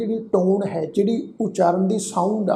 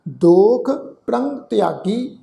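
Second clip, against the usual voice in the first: slow, drawn-out sacred recitation; scripture recitation; much slower than usual. Shown as a demonstration. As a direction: recite slowly, holding the long vowels. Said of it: "ਅਸੀਂ ਪਾਠ ਉਚਾਰਨ ਕੀਤਾ ਜੀ".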